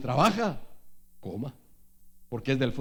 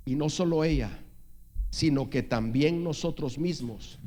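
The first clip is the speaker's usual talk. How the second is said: slow scripture reading. Real, not acted. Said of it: "lo voy a leer despacio".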